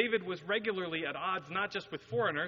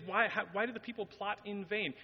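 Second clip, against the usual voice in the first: "why do the people plot in vain" asked on a higher pitch; raised questioning WHY, falling to "vain"; posed as question; 5 semitones higher than usual. Retold or imitated. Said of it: "asks those as a question".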